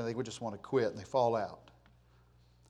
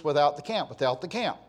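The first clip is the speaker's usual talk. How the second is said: "without" leaned on, phrase repeated; stress on WITHOUT; 6 dB louder than usual. Shown as a demonstration. Preacher points out the verse's emphasis, stress on "without". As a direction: press on "without" in "without the camp". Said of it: "Notice there's an emphasis".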